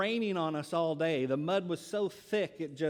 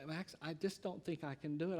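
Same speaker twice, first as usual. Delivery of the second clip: tearful wife; 7 dB quieter than usual. Retold or imitated. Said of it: "She begins to cry".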